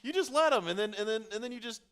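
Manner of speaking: high, rising excitement; excited. Real, not acted. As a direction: relive the pass with glee. Excited retelling of a pass.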